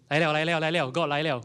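loud, excited Singlish exclamation; eager, loud mock excitement; excited acted reaction. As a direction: play someone thrilled it's finally happening. Acts Elijah reacting to wind.

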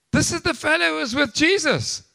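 a touch of the accusing servant; lightly acted accusation. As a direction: call it out to the bystanders. Quoting servant girl's accusation aloud.

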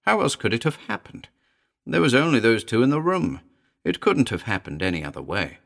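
impassioned character dialogue; agitated story character. Acted. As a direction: press the point urgently.

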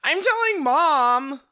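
high, loud, slow whiny tattle; whiny tattling little sibling. Retold or imitated. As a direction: whine it like a kid tattling. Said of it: "And he was like".

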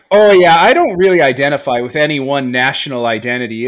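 a loud, hammy American accent, played for laughs. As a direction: lay the American accent on thick. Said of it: "I gotta use my American accent".

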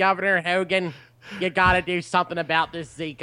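put-on light Baltimore accent, pleading the governor; a touch of Baltimore accent. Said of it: "that is a solid accent".

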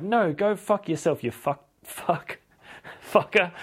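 high hammed-up cursing, faltering into laughter; comic outburst that cracks up; mock angry refusal. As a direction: refuse shrilly, then fumble the swear. Acted angry refusal, breaking into laughter.

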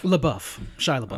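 LaBeouf as luh-BUFF; chosen pronunciation. Shown as a demonstration. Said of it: "is it LaBeouf or La".

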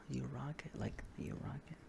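hushed, breathy whisper of getting it; whispered realization. Real, not acted. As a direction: whisper it as the joke lands. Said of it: "I see what you did there".

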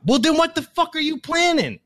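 laughing it out, voice jumping up; cracking up in disbelief as you ask. Real, not acted. Host laughing at the guy's clueless reply, laughing question.

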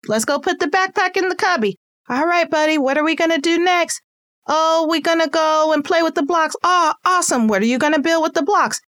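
high, bright encouraging parent chatter; cheerful parent to child. Pretend. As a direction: cheer the kid on at drop-off.

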